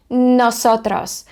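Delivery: drawn-out, carefully sounded Spanish word; teacher's slow, deliberate Spanish; slow model pronunciation. Shown as a demonstration. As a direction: say it slowly for learners to copy.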